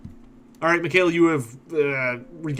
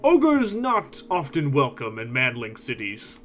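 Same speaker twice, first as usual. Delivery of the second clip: very slow, gloomy ogre; much slower than usual. Acted. Ogre explaining why cities shun him, slow and sullen. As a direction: drag out the complaint like a sulking giant. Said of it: "He frowns and says".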